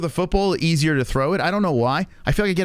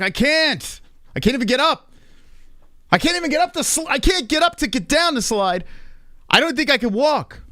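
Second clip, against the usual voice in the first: high, strained whining in pain; pained whine; 10 semitones higher than usual. Retold or imitated. Dad stuck atop the slide, high pained whine. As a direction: complain like you can't stand up. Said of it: "I'm like".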